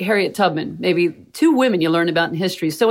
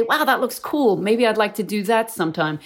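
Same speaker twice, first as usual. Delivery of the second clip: put-on excited young girl; 3 semitones higher than usual. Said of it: "girls can look up and say".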